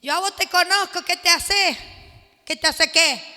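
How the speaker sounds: loud, jeering challenge; taunting demon. Retold or imitated. Possessed person jeering at believers, loud. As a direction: throw the taunt back loudly.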